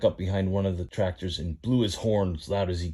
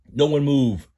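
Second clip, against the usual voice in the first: loud command; 7 semitones higher, 7 dB louder than usual. Acted. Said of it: "said a tractor".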